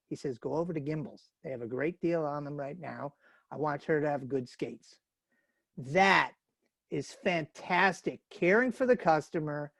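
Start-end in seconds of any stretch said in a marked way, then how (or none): 0.4-5.0 low, soft aside to a mother; confiding store Santa. Acted. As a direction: quietly let her in on a tip. Santa confides advice to mom.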